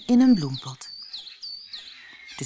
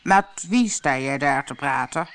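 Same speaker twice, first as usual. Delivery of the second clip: louder king's voice, puzzled; a fussy king questioning; suspicious king; 2 semitones lower, 4 dB louder than usual. Acted. King asks Alice whom she talks to, louder and puzzled.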